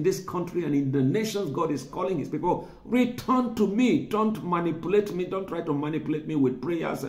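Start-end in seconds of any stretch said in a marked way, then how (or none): 2.8-7.0 pleading call. Acted. Preaching God's call.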